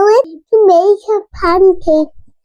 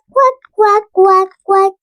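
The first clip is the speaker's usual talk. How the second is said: mommy duck quack; 2 semitones higher than usual. Acted. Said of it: "Mommy duck said".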